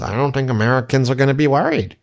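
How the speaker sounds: breezy, dismissive arrogance in a mocking impression; Scott Bessent, arrogant. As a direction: imitate a smug official brushing off the worry. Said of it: "like, arrogance".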